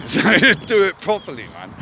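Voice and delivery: high laughing delivery; amused at himself, laughing. Real, not acted. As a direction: laugh through the words. Laughs at own plan.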